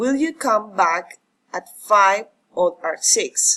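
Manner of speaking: rising-falling tune, up on five, down on six. An English intonation lesson, demonstrating an alternative question with rising then falling intonation. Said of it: "rising and falling intonation".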